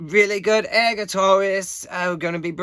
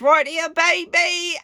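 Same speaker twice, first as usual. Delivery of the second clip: higher, thrilled brag; proud showing off; 9 semitones higher than usual. Real, not acted. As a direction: show off the trophy, beaming. Showing off his trophy.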